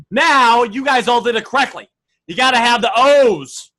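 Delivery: usual speaking voice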